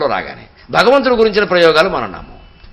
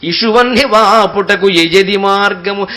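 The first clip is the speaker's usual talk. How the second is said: slow verse recitation; slower than usual. Acted. Preacher reciting the unborn child's plea, slow chant. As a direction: draw out each word of the poem, very slow.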